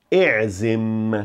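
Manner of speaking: E'zim with a long final M; hold the M. Shown as a demonstration. Teacher stressing the M in E'zim. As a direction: stretch the M at the end of E'zim. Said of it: "De novo, valorize o M".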